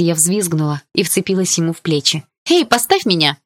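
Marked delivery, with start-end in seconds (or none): 2.5-3.4 high, loud yelp of protest; startled shout. A narrator's reading. Girl spun in Dima's arms shouts to be put down. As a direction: yell at him to put her down.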